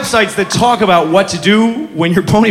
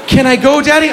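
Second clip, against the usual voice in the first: daughter's voice; 5 semitones higher than usual. Retold or imitated. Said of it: "daughter voiced".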